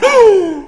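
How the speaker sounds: high, loud feigned gasp; mock shocked gasp. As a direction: gasp as if scandalized. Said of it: "He's not shocked by your sin".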